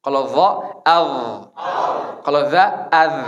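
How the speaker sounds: compare two z sounds, one heavy; careful contrast of the z letters. Shown as a demonstration. Teacher shows the difference between the two za letters. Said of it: "Bedanya itu, za sama za".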